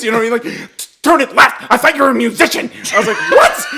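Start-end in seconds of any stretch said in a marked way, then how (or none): 1.0-2.7 accusing. Retold or imitated. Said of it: "weird accusations". 3.3-3.7 very high incredulous yelp; mock disbelief shooting upward; baffled outburst. Son answering dad's weird accusation, baffled.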